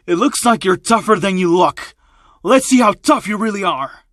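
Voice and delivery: smirking. Acted. Thug boss challenges the kid who survived, smirking. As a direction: taunt with a smirk in the voice. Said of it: "would be smirking".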